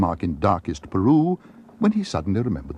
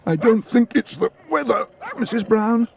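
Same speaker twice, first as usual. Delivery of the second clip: breathless gasp; 4 dB louder than usual. A narrator's reading. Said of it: "gasped Paddington".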